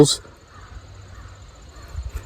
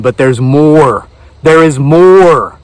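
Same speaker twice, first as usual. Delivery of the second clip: slow dramatic reveal; slower than usual. Acted. Infomercial reveal.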